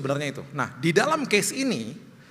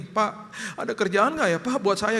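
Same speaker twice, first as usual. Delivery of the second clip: panicked pleading; 5 semitones higher than usual. Retold or imitated. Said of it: "kayak orang panik gitu".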